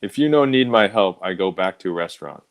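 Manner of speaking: lightly put-on fake Asian accent, broken English; a hint of stereotyped Asian accent, barely voiced. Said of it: "that he speaks with, with an accent".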